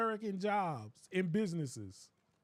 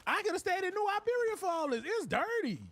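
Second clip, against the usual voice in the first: disgusted complaint; 7 semitones higher than usual. Retold or imitated. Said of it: "be like".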